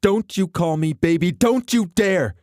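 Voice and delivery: very high, loud furious shout; voice going way up. A narrator's reading. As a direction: scream it at him. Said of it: "Her voice went up ten octaves".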